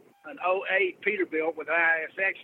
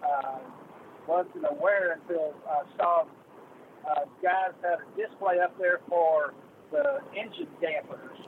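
far from mic. Real, not acted. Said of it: "I'm having a really hard time hearing you".

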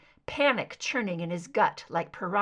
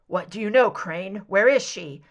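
angry; 7 dB louder than usual. Acted. Mulder angry, surging up.

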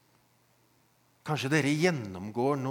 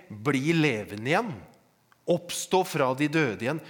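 loud, raised preacher's proclamation; retold call; 3 semitones higher, 8 dB louder than usual. Preacher voices what Jesus did not call, loud retold cry. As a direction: proclaim it forcefully in a lifted voice. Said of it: "Han roper ikke".

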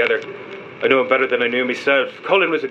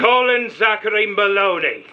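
high, drawn-out full name; fiercely insistent, pitched high; indignant correction; 7 semitones higher, slower than usual. Acted. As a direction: cut in and insist on the name, word by word. Cuts in to insist on friend's name.

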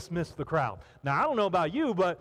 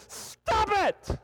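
sharp command; 12 semitones higher than usual. Real, not acted. Preacher scolding fearful listeners.

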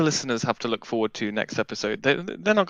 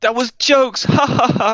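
mock street slang; 12 semitones higher, 7 dB louder than usual. Mock slang exclamation with laugh.

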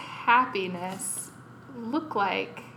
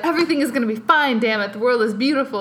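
rushed, louder fake-positive chirp; forced cheer; 3 semitones higher, 6 dB louder, much faster than usual. To the group, imagining a smiling sad character, frantic fake cheer. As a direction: cover tears with frantic cheer. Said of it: "you're like".

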